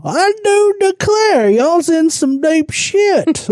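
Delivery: high, slow Southern drawl, laughing through it; God as a Southern belle; laughing mock Southern drawl. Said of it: "I feel like that's God right now".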